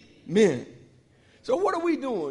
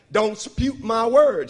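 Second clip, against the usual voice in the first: slow, stern mama warning, a touch louder; stern mama's warning; 2 semitones higher, 7 dB louder, much slower than usual. Retold or imitated. A hint of his mother scolding the children, slow. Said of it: "then she say something like".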